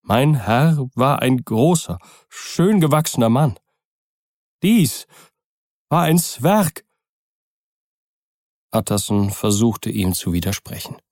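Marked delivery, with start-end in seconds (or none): 0.0-6.8 put-on horrified old servant. A narrator's reading. Poole, horrified.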